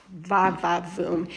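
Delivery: slow, low, soft purr of approval; lightly hammed-up bombshell; sultry va va voom. Real, not acted. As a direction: savour it like a showstopper. Praising the kitchen.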